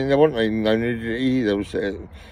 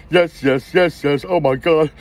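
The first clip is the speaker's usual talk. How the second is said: higher, louder yes yes oh my God; excited, pitched-up yes; 6 semitones higher, 4 dB louder, slower than usual. Real, not acted. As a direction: cheer it out. Excited exclamation after the story.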